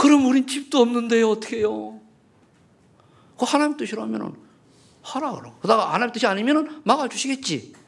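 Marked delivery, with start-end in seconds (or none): 0.0-2.0 acted, tearful sobbing through the words. Retelling a person's reply to being told to obey: imitating someone crying. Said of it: "막 울면서".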